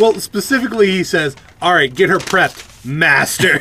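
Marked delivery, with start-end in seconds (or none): 1.6-3.6 put-on snide, needling, snarky, sarcastic tone. Recounting a scene, quoting a character's order, retelling a snarky line. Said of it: "So snarkily".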